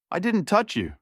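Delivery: high panicked shout. A narrator's reading. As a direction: shout back in rising panic. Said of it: "Zoe shouted".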